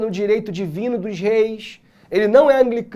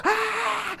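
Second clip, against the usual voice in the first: mock scream; 13 semitones higher, 6 dB quieter than usual. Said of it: "a mulher começou a gritar".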